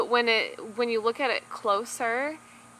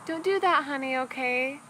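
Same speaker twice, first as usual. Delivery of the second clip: pushover parent; 6 semitones higher than usual. Retold or imitated. Mom imitating a pushover parent gently pleading with her child. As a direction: mimic a permissive mom begging her kid to stop. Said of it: "that you were just like".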